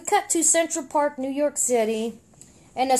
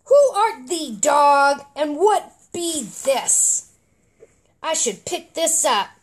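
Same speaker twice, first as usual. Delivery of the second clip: frog warrior voice; slower than usual. Acted. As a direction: question the dog like a pompous knight. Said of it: "And of course".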